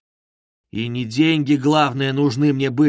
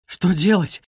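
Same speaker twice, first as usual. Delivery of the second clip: exclaiming; 4 semitones higher than usual. Acted. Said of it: "воскликнула она".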